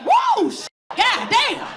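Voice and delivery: high startled yelp, pitch jumping way up; shocked yelp. Retold or imitated. Comic telling her own bedroom pain, high startled yelp. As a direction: squeal it like the pain just hit. Rolling over after painful sex.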